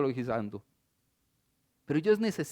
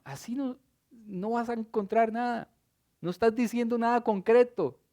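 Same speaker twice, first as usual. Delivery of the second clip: hushing rebuke; 5 semitones higher than usual. Acted. Crowd hushing the blind man.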